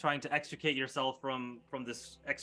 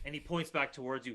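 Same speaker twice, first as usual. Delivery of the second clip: ordinary delivery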